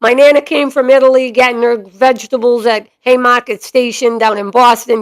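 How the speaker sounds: Boston-accented storytelling. Shown as a demonstration. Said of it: "do this with the Boston accent".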